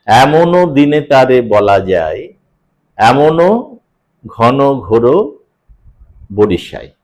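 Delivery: slow, drawn-out line of verse with pauses between phrases; verse recitation demo. Shown as a demonstration. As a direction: linger on "এমনও", pause before "ঘন ঘোর" and "বরিশায়". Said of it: "আমরা উচ্চারণ সময় সেটা অনুভব করি। কিরকম?".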